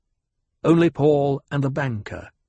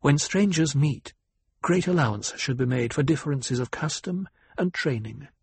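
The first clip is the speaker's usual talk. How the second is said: sweetly; 4 semitones higher than usual. Acted. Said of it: "spoke sweetly".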